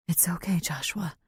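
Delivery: barely any voice left; weak. A narrator's reading. Injured mother comforting her son, weak whisper. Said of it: "Claire says to him weakly".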